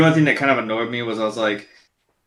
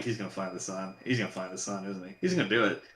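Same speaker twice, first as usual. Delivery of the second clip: anxious murmur; 5 semitones lower, 14 dB quieter than usual. Retold or imitated. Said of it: "I'm like".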